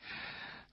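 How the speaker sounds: short, soft, breath-only laugh; a small quiet chuckle through the nose; faint amused huff. A narrator's reading. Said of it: "微微地笑着说".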